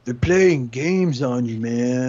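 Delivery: slow lazy stoner drawl. Retold or imitated. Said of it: "he just sounds like a stoner".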